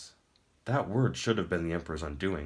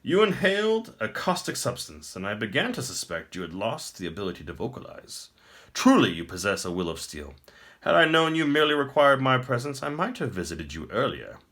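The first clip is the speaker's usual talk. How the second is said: higher, louder and grand, a pleased tyrant; smug emperor; 6 semitones higher, 6 dB louder than usual. Acted. The Emperor taunts the captive prince, smug and grand. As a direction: speak down to a beaten foe.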